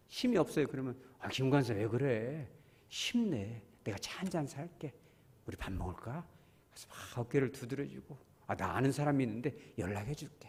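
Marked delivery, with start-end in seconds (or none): 1.2-6.3 gentle comfort. Retold or imitated. Consoling a downcast church member. 8.5-10.5 confiding whisper. Retold or imitated. Offering help to a brother.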